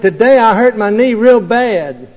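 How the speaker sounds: insistent shout. Retold or imitated. Boy shouting his hurt knee at an ignoring father. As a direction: push it out, demanding attention. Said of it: "he shouted".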